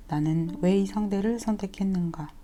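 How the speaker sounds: ordinary talk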